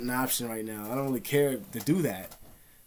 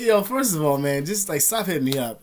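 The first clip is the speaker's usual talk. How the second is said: exasperated telling-off; 5 dB louder than usual. Retold or imitated. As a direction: act out telling a pest to back off. Retold telling-off of a pest.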